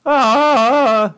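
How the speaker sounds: high, anxious cartoon boy; fretful squeak, way up in pitch; squeaky teen voice sliding into a worried kid; Morty. Shown as a demonstration. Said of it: "then you got a Morty".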